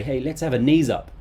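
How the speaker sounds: hearty party invite; older person inviting. Acted. An older person suggesting a party, loud and hearty. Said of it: "somebody a little bit older might say".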